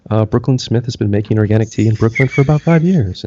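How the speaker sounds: mock public-radio host, measured and earnest; soft-spoken educated host parody; soft, thoughtful radio voice. Shown as a demonstration. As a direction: lightly parody a thoughtful artisanal radio show. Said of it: "way of speaking that's very soft and very thoughtful".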